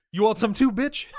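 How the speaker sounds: high, loud mock fighter taunt; shouted challenge. Kickboxer taunting the girlfriend, mock shout. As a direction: yell it as a hammed-up challenge.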